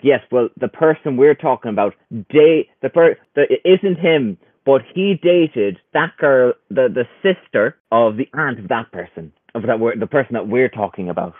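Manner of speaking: lightly put-on nan tracing family ties; old nan voice. Podcaster imitates a local gossip, sounding like his friend's nan. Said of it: "with the bad mic quality and the accent, you sound like my nan".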